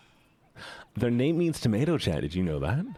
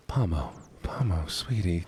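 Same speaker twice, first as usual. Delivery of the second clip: ASMR whisper; 7 semitones lower than usual. Pretend. Teasing a friend about ASMR.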